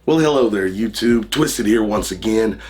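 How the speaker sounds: hoarse from being under the weather; sick, scratchy raspy voice. Real, not acted. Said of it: "excuse my raspy voice".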